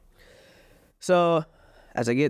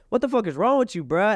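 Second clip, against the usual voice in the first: mock yell; 7 semitones higher than usual. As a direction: replay his own shout at her. His retold yell on video.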